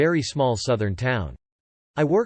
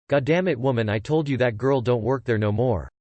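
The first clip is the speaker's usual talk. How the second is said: lightly voiced Southern drawl; a hint of a tired Southern husband. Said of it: "In all the deep southern drawl glory".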